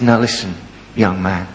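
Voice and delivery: put-on soft, low, gentle word to a child; a touch of gentle teacher tenderness; gentle coaxing. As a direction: coax the upset boy softly. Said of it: "needs a delicate touch".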